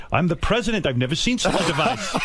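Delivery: Lincoln. Pretend. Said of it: "walking around all day as Lincoln".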